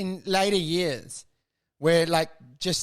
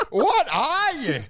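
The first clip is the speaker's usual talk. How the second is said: startled; 8 semitones higher, 4 dB louder, slower than usual. Retold or imitated. Startled human to robot.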